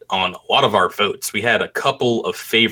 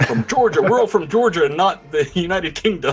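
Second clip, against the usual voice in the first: bad Southern accent; 5 semitones higher than usual. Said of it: "put a bad Southern accent on top".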